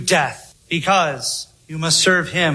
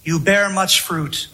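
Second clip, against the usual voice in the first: steady, earnest sermon delivery, pressing each phrase home; earnest preaching. Real, not acted. Preacher urging listeners to look at the cross, earnest preaching. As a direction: preach it to the congregation with conviction.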